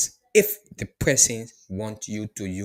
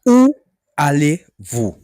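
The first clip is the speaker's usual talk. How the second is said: higher, louder, slow Où allez-vous; model question; 4 semitones higher, 11 dB louder, slower than usual. Shown as a demonstration. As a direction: lift Où allez-vous clearly. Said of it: "how you ask the question in French".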